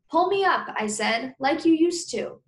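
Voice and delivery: put-on high, loud pleading kid voice; a boy pleading to be pulled up; eager kid. A narrator's reading. Kid begs dad to lift.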